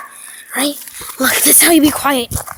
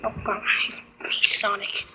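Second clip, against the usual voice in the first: slow exasperated whisper; 6 semitones lower, 13 dB quieter, slower than usual. Real, not acted. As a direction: whisper it in defeat. Hiding, whispering.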